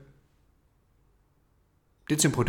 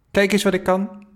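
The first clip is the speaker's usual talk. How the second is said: high, loud eager boast; proud showing off; 9 semitones higher, 7 dB louder than usual. A narrator's reading. Boy runs to grandpa, proudly eager. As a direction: show grandpa what you can do.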